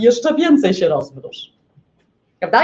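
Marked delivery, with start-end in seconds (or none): 0.0-1.5 wolno, zmienionym głosem, namawiająco; przeciągnij to jak kusząca planeta; głos Jowisza. Retold or imitated. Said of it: "to Jowisz co temu księżycowi mówi?". (Jowisz namawia Księżyc, wolno i zmienionym głosem)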